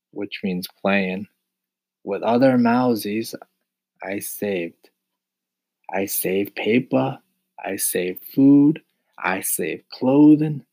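put-on milk the sympathy like a poor old mouse; mildly pitiful whine, slowing down; high and pitiful. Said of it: "His voice became high and pitiful again".

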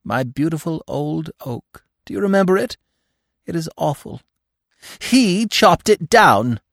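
squeaky little animal lamenting his lost tree; grieving squirrel. A narrator's reading. Squirrel telling Bambi of the oak, high and mournful.

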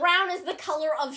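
lightly done mock Italian accent; imitated Italian accent. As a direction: enunciate like an Italian TikToker, mildly. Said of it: "his Italian accent".

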